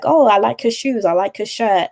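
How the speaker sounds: friendly, lightly lifted small-talk compliment; said with a smile. Shown as a demonstration. Coach modelling office small talk, said with a smile. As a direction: offer a casual compliment with a smile. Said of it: "just say it with a smile".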